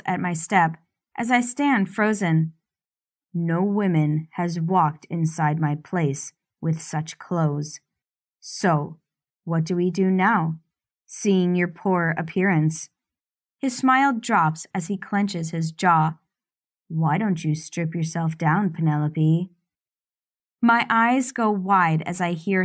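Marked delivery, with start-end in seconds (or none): 3.3-12.9 lightly lowered, controlling man's voice; domineering man. Acted. Stefan scorns her clothes. 16.9-19.5 lightly lowered, controlling man's voice; domineering man. Acted. Stefan orders her.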